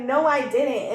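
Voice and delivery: retold yelling. Dancer denying the customer's claim, retold as a loud retort. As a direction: act out arguing back, fairly loud. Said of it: "are literally yelling at each other".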